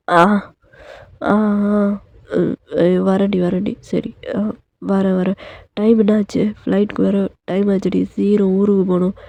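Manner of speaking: a just-woken man brushing off his wife; a hint of a drowsy husband; sleepy husband. Narrator voices waking husband.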